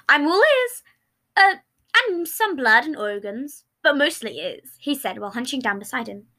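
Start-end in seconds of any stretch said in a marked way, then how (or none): 0.1-4.8 creepy cheerful voice. Acted. Remus voice.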